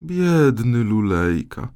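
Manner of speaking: slow, mild sigh of pity. Acted. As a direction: breathe out a gentle pitying sigh. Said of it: "westchnęła królowa". (z westchnieniem, powoli)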